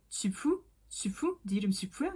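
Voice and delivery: 지푸 as a puzzled question, j then f-like second syllable; mock mishearing of 지수 as 지푸; imitating misheard name. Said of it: "번데기 발음처럼 들리나 봐요".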